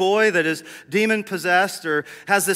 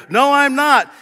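loud refusal; 8 semitones higher, 9 dB louder, slower than usual. Retold or imitated. Farrar refuses.

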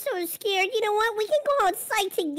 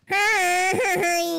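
creepy voice. Acted. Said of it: "you were sounding really weird".

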